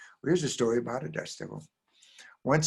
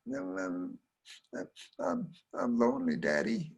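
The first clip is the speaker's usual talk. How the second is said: put-on high, halting, tearful child; tearful little girl; 4 semitones higher, 5 dB quieter than usual. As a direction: hesitate through mock tears. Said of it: "she was crying".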